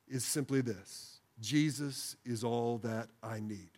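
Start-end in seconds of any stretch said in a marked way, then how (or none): 1.4-3.7 slow prayerful phrase. Shown as a demonstration. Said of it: "say with me".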